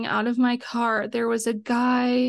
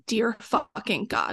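exasperated inner groan; slower than usual. Retold or imitated. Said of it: "And I'm like".

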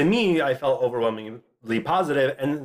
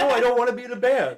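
laughing refusal; 10 semitones higher, faster than usual. Pretend.

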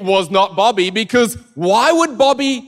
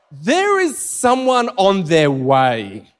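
stalling reassurance; much slower than usual. Retold or imitated. Covering up a panicked mistake.

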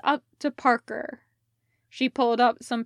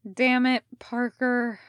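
without heat. Acted. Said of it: "no real heat to it".

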